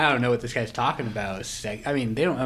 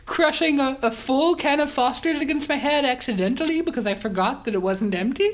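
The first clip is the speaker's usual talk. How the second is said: higher, louder hammed-up posh English gent; posh English accent; 12 semitones higher, 4 dB louder than usual. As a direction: play the Monopoly tycoon in a plummy English accent. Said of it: "you're getting Irish on me".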